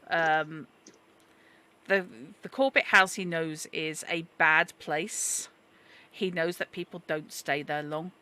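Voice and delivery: lightly voiced American accent with a hint of old Irish. GM voicing chatty newsagent Mister Dooley for the players, light American Irish accent. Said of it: "He's got that sort of accent".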